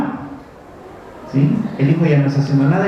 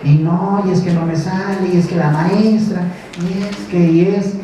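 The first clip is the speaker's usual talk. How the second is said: mock whining child; 4 semitones higher than usual. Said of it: "empieza a gritar".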